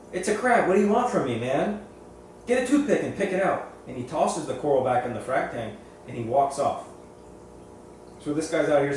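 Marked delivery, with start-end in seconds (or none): 0.1-3.7 high, louder mock exasperation; irritated vendor. Vendor telling a customer to dig the crab out, high exasperated mock rant. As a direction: imitate a fed-up vendor shoving the problem back.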